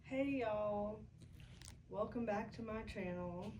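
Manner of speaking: hesitant attempt at friend's drawling accent; imitating friend's accent. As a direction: try on your friend's accent, unconvincingly. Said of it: "I can't do your accent".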